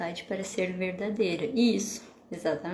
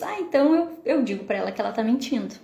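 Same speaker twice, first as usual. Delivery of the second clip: quoting other parents; 3 semitones higher, 4 dB louder, faster than usual. Retold or imitated. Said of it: "algumas pessoas".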